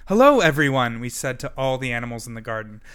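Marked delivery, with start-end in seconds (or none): 0.1-1.0 big cheerful greeting to everyone; loud happy hello. A narrator's reading. Greeting all the animals.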